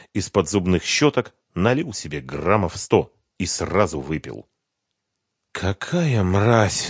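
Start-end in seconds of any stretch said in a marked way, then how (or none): 5.5-6.9 bitter. A narrator's reading. Renat alone, bitter after drink.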